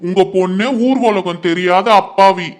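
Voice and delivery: mocking repeat of ஊர் உலகம் தெரியாத அப்பாவி, stretched out in disbelief; sarcastic echo. Uncle mocks the mother's claim that her daughter is innocent, sarcastic echo. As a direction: throw her own words back at her with a sneer. Echoes her words in mockery.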